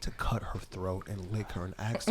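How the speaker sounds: lightly voiced serial killer documentary narrator; docuseries narrator. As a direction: narrate it like a true-crime series. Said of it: "narrator to a badass serial killer docuseries".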